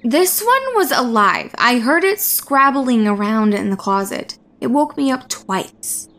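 lightly voiced insistent young student; a hint of indignant insistence; protesting student. Gale protests to dismissive professor.

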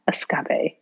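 escape as es-CAH-pay; playful mispronunciation. Shown as a demonstration. Showing the family's word, es-CAH-pay. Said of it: "my family legitimately says escape".

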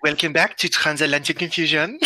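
joking French-accented show intro; badly faked French accent; attempted French accent. Shown as a demonstration. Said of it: "I can't do the French accent".

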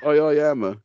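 mimicking a stutter on I; stuttering imitation. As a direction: repeat the I as if stuttering. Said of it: "that's how you said it".

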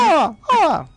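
bird call imitation. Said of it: "¿Qué es eso?".

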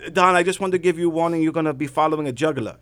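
lightly put-on impression; a bad, half-held imitation; Saad. Fellow comic giving Don a warning, lightly impersonated. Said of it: "that's my really bad Saad impression".

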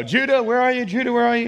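put-on high, loud call for a missing child. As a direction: call through the house for your son. Calling for his missing son.

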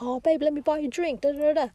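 mock smooth chat-up line. Tipsy guy offers to buy her a drink, mock flirty. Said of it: "he was like".

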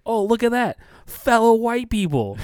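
high-pitched mock-delighted cop voice; imitated excited cop. Cop pointing out a car at the stoplight, mock excited.

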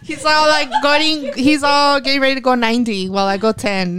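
words bubbling with laughter; laughing. Real, not acted. To her friends, laughing about the grab. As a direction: laugh it out mid-sentence.

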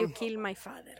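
put-on Spanish accent; film avenger's line in a mock Spanish accent; Inigo Montoya. Finishing the film quote as it should go, mock Spanish accent. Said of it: "you have to do it with an accent".

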